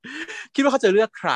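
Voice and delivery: cool taunt. Retold or imitated. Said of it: "พูดอย่างงี้".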